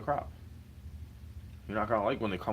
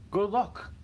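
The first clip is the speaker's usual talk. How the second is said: loud, much higher scornful jab; sarcastic good luck; 12 semitones higher, 5 dB louder than usual. Real, not acted. Mocking his chances of recording songs, loud and scornful. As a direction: spit out good luck in disbelief. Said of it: "sarcastic repeat".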